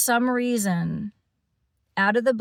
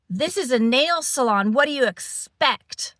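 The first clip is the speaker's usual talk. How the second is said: snippy stranger; 5 semitones higher, 4 dB louder than usual. Retold or imitated. Rude stranger retorted in salon.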